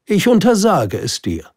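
high, loud royal ban; forbidding king. Acted. (strenges Verbot des Königs, hoch und laut)

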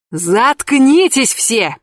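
drown them all out; shouting over everyone. A narrator's reading. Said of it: "переорал нас Димка".

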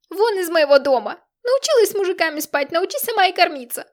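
high, loud furious yell; mother yelling. A narrator's reading. Mother throwing daughter out, furious high yell. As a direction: scream her out of the house. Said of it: "орала мать".

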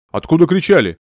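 sharp call. Acted. Man demands where screams came from.

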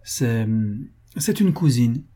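mildly faked stammer of embarrassment; hesitate, pretending to be caught out; feigned embarrassment. Laréole explaining the photo to Fanny, with feigned embarrassment. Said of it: "avec un embarras affecté".

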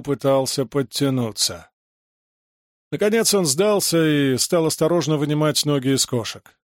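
usual speaking voice

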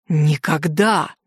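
slow, low, venomous hiss. Acted. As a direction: spit the word out through restrained rage. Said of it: "ядовито прошипел он". (ядовито, медленно и низко)

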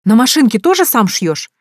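high, loud, jeering question. A narrator's reading. Woman mocking the man's sewing machine, jeering. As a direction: taunt him with mock amazement. Liza keeps jeering at him.

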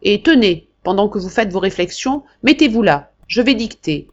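loud, high, bossy threats; the marquis threatening Jacques, then ordering him to take dictation; domineering old marquis. Acted. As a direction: cut him off and lay down the law.

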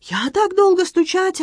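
put-on high, slow French-accented broken Russian; excited Frenchman in broken Russian, high; Antoine voice. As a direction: play the flustered Frenchman, pitched high.

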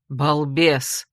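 low, scolding male voice; indignant outburst. Acted. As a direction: snap the insult out in outrage. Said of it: "возмущался один голос".

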